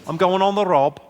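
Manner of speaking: broad, authentic-sounding Scouse; Scouse accent. Shown as a demonstration. Comic showing the crowd something properly Scouse once warmed up, Scouse accent. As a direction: put on a full Liverpool accent, drawing out the last lines. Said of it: "authentically Scouse".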